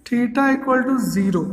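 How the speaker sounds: drawn out slowly for writing; slow dictation. Shown as a demonstration. Teacher dictating condition to class, slow. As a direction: say it slowly as you write it.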